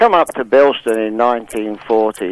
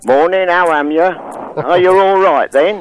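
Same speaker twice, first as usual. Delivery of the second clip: put-on Black Country accent; 5 semitones higher than usual. Londoner showing how Bilston locals greeted him, imitated Black Country accent. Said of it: "everybody who I met used to say".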